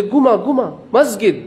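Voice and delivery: Egyptian Arabic with a hard g, ঘুমা for জুমা; imitating an Egyptian man's Arabic, ঘুমা and মসজিদ with a hard g; Egyptian Arabic accent. A preacher imitating an Egyptian man giving directions to the mosque, in Egyptian Arabic. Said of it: "ঘুমা মানে জুমা".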